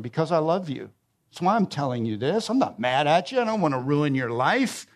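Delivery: low, earnest parental reassurance; loving parent. Acted. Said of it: "Sometimes as a parent, you say to your children".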